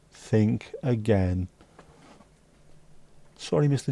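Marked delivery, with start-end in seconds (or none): 0.1-1.5 slow, drawn-out menacing warning; menacing threat. Pretend. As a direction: lean in slow like a heavy.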